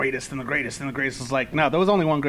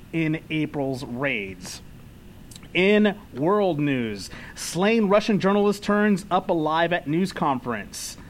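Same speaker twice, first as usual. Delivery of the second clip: mock newscaster, crisp and formal; news anchor read. Reads news bulletin on podcast.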